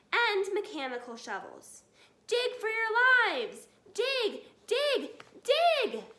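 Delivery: building to loud, high frantic shouts; urgent shouting. A narrator's reading. Mister Fox urging his family to dig. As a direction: drive them to dig for their lives. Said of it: "shouted Mister Fox".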